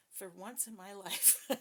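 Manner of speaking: breaking into a real laugh at the end. Real, not acted. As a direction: crack yourself up on the last words. Jokes about being innocent for once.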